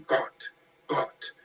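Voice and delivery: Gott, Gott whispered, unvoiced; breathy whispered Gott. Shown as a demonstration. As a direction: hiss out Gott, Gott like a secret. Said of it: "they kept putting G O T".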